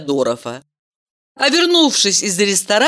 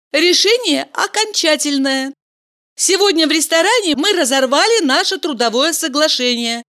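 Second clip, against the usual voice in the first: put-on higher young woman's voice, lively; Valeria's voice; 10 semitones higher than usual. Valeria tells Mikhail she quit the job, lively. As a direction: chatter it brightly, as Valeria.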